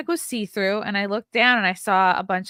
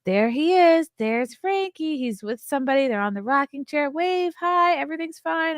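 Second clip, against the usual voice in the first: soothing nurse; 5 semitones higher than usual. Retold or imitated. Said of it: "He's like".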